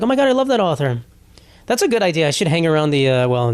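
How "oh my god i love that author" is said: high, gushing fake fangirl; a hint of a gushing reader; mock gushing fan. Mocking a guy faking love for a book, higher gushing. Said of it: "be like".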